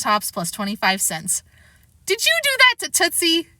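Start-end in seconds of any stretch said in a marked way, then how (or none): 2.1-3.5 high, stern demand; stern question. Acted. Mother confronts son, stern question. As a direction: confront the child sharply.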